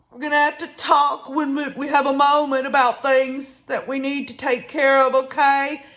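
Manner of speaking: mock emotional plea; imitated weeping. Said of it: "She is weeping, y'all. She is emotionally weeping".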